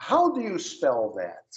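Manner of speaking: "How do you spell that?" asked slowly and clearly; slow model question. Shown as a demonstration. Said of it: "aí eu vou te perguntar".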